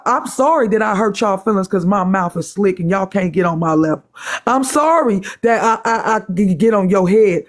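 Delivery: insincere sorry, dryly delivered; sarcastic apology. Real, not acted. Woman mock-apologizes to critics for her slick mouth, sarcastic. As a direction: apologize without meaning a word of it. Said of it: "just know that I'm being sarcastic".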